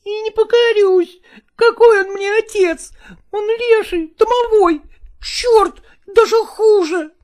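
put-on a child sobbing and refusing to obey; crying boy. Boy crying to the lodgers about his stepfather, high and defiant. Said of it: "продолжая плакать".

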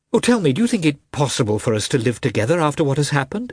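lightly voiced wife, pleading and upset; a wife pleading, close to tears; a touch of a betrayed wife begging for an answer; a hint of a desperate wife. A narrator's reading. Dolly pleads with husband.

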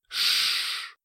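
soft unvoiced shush. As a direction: hush her gently. He soothes her, stroking her head.

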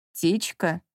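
low, drawn-out suspicious question; a low, suspicious drawl at his partner; drawn-out doubt. Acted. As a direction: stretch the word out, doubting. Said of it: "протянул он".

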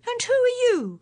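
standing up to a stranger; bold. A narrator's reading. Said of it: "asked Polly boldly".

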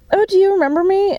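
high, loud gushing fake cheer; mock bubbly greeting. Mocking the girl who hugs her, shrill fake cheer. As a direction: gush it like a fake-friendly stranger.

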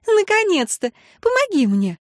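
high-pitched, relieved appeal; flustered plea. A narrator's reading. Worn-out mother begs her husband for help, flustered. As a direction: call for help, voice pitched right up.

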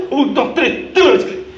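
high, loud mock counting outburst; child's tantrum. Preacher parodying demands for a bicycle, high loud tantrum shout. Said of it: "Es lógico verlo como un berrinche".

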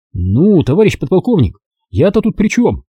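a lightly voiced sheepish adjutant; guilty adjutant. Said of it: "Виновато извиняясь".

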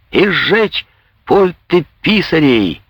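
shout. Acted. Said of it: "крикнул его сосед".

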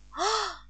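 soft gasp of joy; a quiet, delighted "ah"; joyful gasp. A narrator's reading. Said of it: "вырвалось у меня радостным звуком". (тихий радостный вздох)

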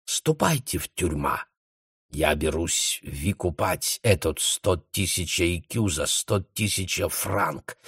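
put-on hushed German-accented plea. A narrator's reading. The baron quietly pleading with Esther in a German accent. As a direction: coax her quietly behind the door.

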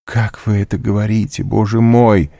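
put-on a wounded girl flaring up at her lover; high, loud, offended outcry; offended exclamation. A narrator's reading. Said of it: "воскликнула оскорблённая Валентина".

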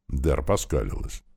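ordinary delivery, nothing marked

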